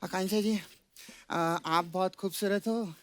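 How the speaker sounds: low, hesitant sweet talk; bashful compliment. Acted. Boy flatters the actress, bashful low sweet talk. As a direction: pause shyly, then offer the compliment softly.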